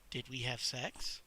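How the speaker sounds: low, soft, slow lean-in question; whisper. Acted. Chuck leaning in to ask Sally privately, soft and slow. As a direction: lean close and ask it softly. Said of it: "You lean in and whisper".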